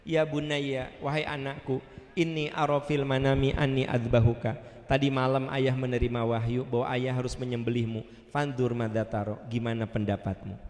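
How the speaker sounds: low, gentle asking; calm fatherly address; tender father. Acted. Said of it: "Indah sekali".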